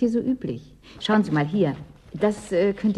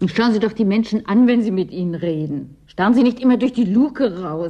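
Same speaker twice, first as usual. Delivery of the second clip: louder, sharp rebuke; irritated scolding with a raised voice; 3 semitones higher, 5 dB louder than usual. Acted. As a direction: tell her off, raised voice. Scolding the visitor.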